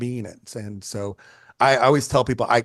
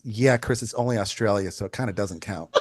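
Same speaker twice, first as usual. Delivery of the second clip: calm, understated deflation, trailing off softer; 2 semitones lower, 4 dB quieter than usual. Retold or imitated. Brother puncturing the photographer's brag, calmly. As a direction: imitate an unimpressed, matter-of-fact reply. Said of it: "he just calmly just goes".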